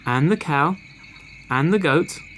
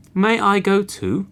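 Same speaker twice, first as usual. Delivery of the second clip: high animal voice; 7 semitones higher, 3 dB louder than usual. Acted. Goat asks to join.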